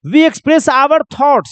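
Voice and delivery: very slow, each word apart; slow teacher dictation. Shown as a demonstration. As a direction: read the definition out slowly to copy. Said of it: "definition अगर दिया जाए तो".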